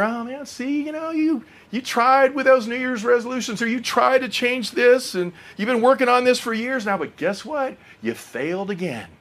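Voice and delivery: soft, insinuating devil voice, not a true whisper. Acted. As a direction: quietly needle the listener as the tempter. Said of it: "he whispers in your ear".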